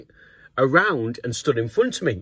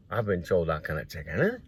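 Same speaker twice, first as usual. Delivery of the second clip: quiet inner thought; 7 semitones lower, 8 dB quieter than usual. Retold or imitated. Inner thought while on sentry duty.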